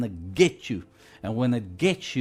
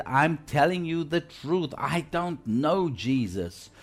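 higher-pitched, insistent retold denial; sworn denial; 3 semitones higher than usual. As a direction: swear it like Peter, slowing on the last words. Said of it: "he denied it with an oath".

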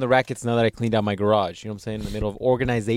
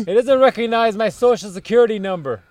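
put-on old prospector; 7 semitones higher, 5 dB louder than usual. Old man bit.

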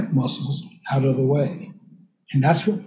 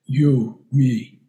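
Tarzan talk; 3 semitones lower, much slower than usual. Retold or imitated. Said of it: "Tarzan would say".

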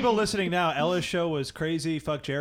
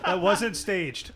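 laughing; 4 semitones higher, 3 dB louder, much slower than usual. Real, not acted. Laughing insistence.

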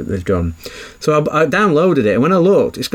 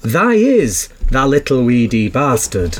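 laughing mock Yorkshire bully; broad Yorkshire, laughing through it; Yorkshire accent. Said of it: "Imagine someone doing an Audible".

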